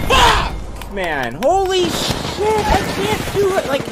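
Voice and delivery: very high, loud frustrated yell; explode, then wail in frustration; anguished rage shout. Real, not acted. Outburst after dying in game.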